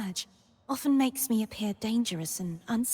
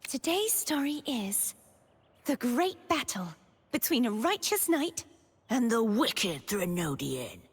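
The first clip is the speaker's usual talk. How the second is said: playful storyteller. Pretend. Playing at telling a tale of knight and Threnodian, playful storyteller. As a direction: announce the tale grandly, then drop ominously. Announcing a mock battle story in play.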